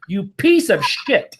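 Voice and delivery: angry telling-off. Pretend. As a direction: chew him out like you should have on day one. Imagined rant telling him off.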